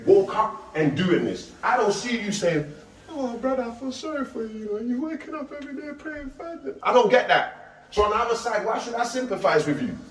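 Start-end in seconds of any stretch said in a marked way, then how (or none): 3.1-6.8 mock pity. Imitating someone pitying the believer.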